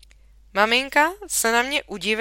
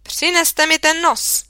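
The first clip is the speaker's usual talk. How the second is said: slow, loud and higher order; stern command; 8 semitones higher, 6 dB louder than usual. A narrator's reading. Teacher ordering the boy to hand over the nose, stern command. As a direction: order it, each word weighed. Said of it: "Nakonec mi poručila".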